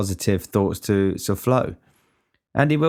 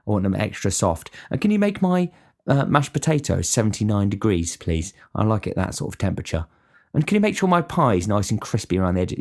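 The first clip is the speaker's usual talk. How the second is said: mock fussy diner. Cook imagines a picky pie order, lightly whiny mock voice. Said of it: "you don't say".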